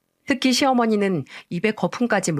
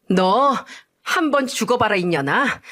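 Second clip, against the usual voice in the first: mock cursing; 2 semitones higher than usual. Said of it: "욕설을 내뱉으면서".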